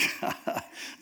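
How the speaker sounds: soft acted scoffing laugh; mock chuckle. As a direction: imitate a man laughing off a threat. Samson laughs off the ropes.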